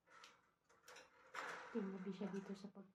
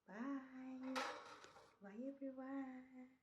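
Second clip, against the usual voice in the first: soft, slow farewell; drawn-out goodbye; 3 semitones higher, 6 dB quieter, much slower than usual. Real, not acted. Vlogger signs off to viewers, softly drawn out. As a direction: stretch out the bye softly.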